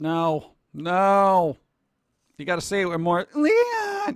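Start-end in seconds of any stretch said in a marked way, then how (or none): 3.3-4.2 very high, shrill, ear-piercing, drawn-out scream. Showing how the line should be yelled: ear-piercing high yell. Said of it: "and more ear piercing".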